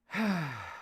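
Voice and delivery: long breathy sigh. Real, not acted. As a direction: let out a sigh before answering. Pauses to think before answering.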